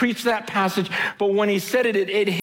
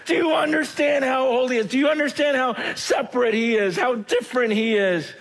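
angels crying out; 3 semitones higher than usual. Acted. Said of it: "They're just constantly crying out".

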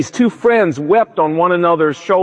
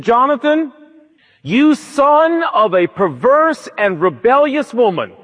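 higher, slow, scolding curse at his son; hammed-up furious Saul cursing Jonathan; mock furious king; 3 semitones higher than usual. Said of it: "Saul went ballistic".

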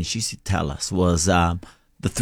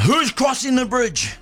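slow, much higher troll yell; 12 semitones higher, slower than usual. Retold or imitated. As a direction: shout it out like the monster under the bridge. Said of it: "Goro is yelling out".

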